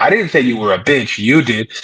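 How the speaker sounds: ordinary delivery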